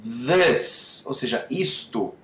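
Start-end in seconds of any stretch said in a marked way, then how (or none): 0.0-1.1 "This" with a buzzing voiced TH; vibrating TH. Shown as a demonstration. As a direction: buzz the tongue tip into "This". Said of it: "esse é o som do this".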